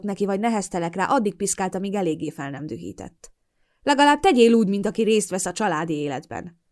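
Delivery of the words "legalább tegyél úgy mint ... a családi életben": condescending. Acted. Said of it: "jegyezte meg Fokhegyről".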